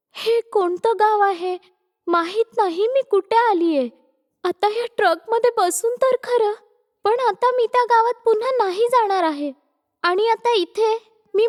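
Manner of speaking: lightly voiced anxious but determined heroine; young runaway wife. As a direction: wonder aloud, then resolve to start afresh.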